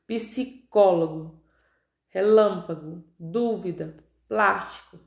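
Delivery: spaced-out words, third-from-last syllable stressed; Psicólogo, relâmpago, dúvida, plástico, leaning on CÓ, LÂM, DÚ, PLÁS; antepenúltima sílaba tônica. Shown as a demonstration. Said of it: "posicionada na antepenúltima". (palavras pausadas, com a antepenúltima sílaba forte)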